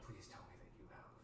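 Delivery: barely holding the voice together; exhausted. Acted. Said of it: "Elodie's exhausted voice says".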